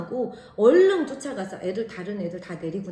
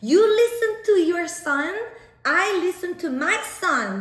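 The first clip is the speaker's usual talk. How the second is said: loud, high-pitched retort; re-enacted furious yell; angry shouting; 8 semitones higher, 7 dB louder, much slower than usual. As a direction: yell it at the other parent. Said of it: "크게 영어로 소리 질렀어요".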